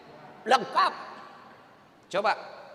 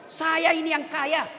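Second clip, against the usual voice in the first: proud husband. Retold or imitated. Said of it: "itu setan yang bicara".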